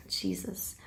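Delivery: deflated, barely voiced exclamation; exhausted sigh. Real, not acted. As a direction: let it fall out low and almost silent. Speechless overwhelm.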